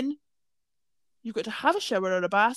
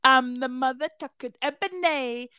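drag queen lyric; 3 semitones higher than usual. Retold or imitated. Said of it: "bit where she went".

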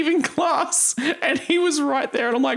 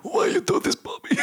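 official ant voice; 6 semitones higher than usual. Pretend. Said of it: "official ant voice".

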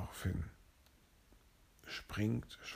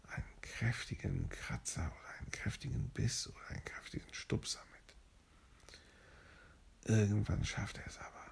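hushed whisper telling the cave fight; soft bedtime whisper narration; whispered bedtime story; 4 dB quieter than usual. A narrator's reading. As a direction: whisper the fight so the child stays sleepy.

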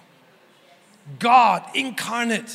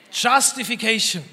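proclaimed. Real, not acted. Preacher proclaims key word.

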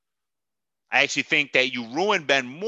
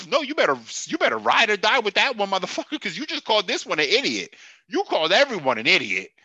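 heated scolding; 5 semitones higher than usual. Acted. Scolding the coach.

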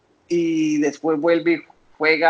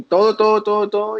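both words hit higher and louder; emphatic repeat; 6 semitones higher, 5 dB louder than usual. Real, not acted. Telling the hosts he gave God everything, higher and louder.

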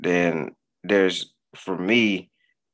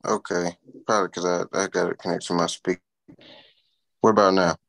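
distorted speaker audio; crackly, like through a cheap speaker; bluetooth speaker; faster than usual. Real, not acted.

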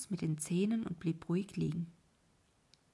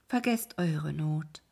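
snake voice; 4 semitones lower, slower than usual. Acted. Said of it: "sagte die Schlange".

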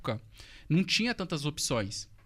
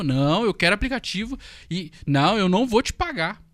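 half-shouted, demanding, a bit higher; mock angry yelling; 4 semitones higher, 5 dB louder than usual. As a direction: play the client yelling at you. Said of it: "e começou a gritar". (gritando com raiva, imitando a cliente)

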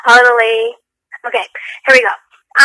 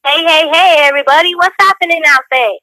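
higher-pitched, called-out intro to the listeners; show intro greeting; 5 semitones higher than usual. Shown as a demonstration. Host demonstrates an intro to co-hosts, higher show greeting. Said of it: "how about this?".

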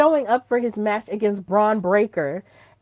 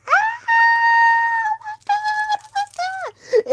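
much higher, squealing "oh my God"; fangirl squeal; slower than usual. Retold or imitated. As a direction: squeal like you lost your mind. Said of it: "I was like".

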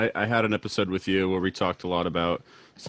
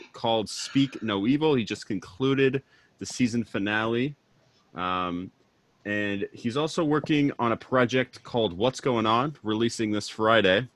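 upbeat radio host read; 2 semitones higher than usual. Acted. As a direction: keep the DJ intro going. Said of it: "this is when the radio voice".

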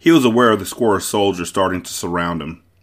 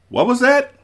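very high, startled question; incredulous; 4 dB louder than usual. A narrator's reading. Wesley reacts to Buttercup's plea, incredulous. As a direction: shoot the pitch right up in disbelief. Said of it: "Wesley said".

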